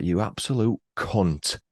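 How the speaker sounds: slow, deliberate mock anger; mad insult. Shown as a demonstration. Demonstrating an insult for somebody you're mad at, mock angry. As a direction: stress it slowly with a hard final T in "cunt". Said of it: "if you're mad at somebody".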